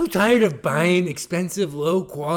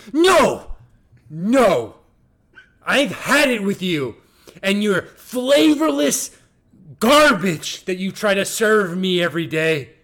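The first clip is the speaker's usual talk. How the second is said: angry; 4 dB louder than usual. Acted. Acted fight in fake ad.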